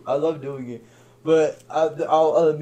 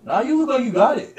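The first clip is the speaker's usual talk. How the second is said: amused refusal; 11 semitones higher, 5 dB louder than usual. Retold or imitated. Imitates onlooker declining to help, amused.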